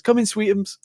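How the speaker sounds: high, sweet simpering voice; mock sugary Chandler. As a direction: coo it, whipped boyfriend. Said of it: "he goes".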